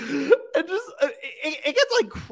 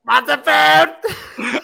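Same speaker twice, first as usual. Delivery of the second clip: slow laughing echo; 5 semitones higher, 5 dB louder, much slower than usual. Acted. Stretched catchphrase echo.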